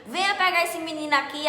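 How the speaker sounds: loud, high wailing with stretched-out words; acted-out screaming. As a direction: holler each complaint long and loud like a woman in labour. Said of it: "Comecei a gritar". (gritando alto e arrastado, encenando o parto)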